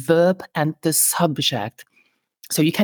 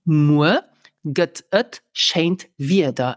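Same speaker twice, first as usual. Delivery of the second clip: "Moe get et scheint wieder" spoken slowly, word by word; slow careful repeat; slower than usual. Shown as a demonstration. Teacher slowly repeating for the class. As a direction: spell it out slowly for learners. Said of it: "let's repeat".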